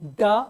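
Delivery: ड flapped as ड़; forceful flick of the tongue on ड; flapped retroflex sound. Shown as a demonstration. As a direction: stick the tongue up, then throw it out on ड. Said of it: "एक बार फंसाने पड़ते हैं".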